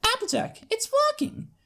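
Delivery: high, loud, thrilled filly shout; excited filly yell. Acted. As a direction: yell it out with pure delight. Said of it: "she yells".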